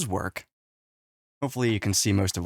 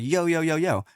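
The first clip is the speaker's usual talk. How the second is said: acted interruption; 5 semitones higher than usual. Slower machine interrupts the gabble.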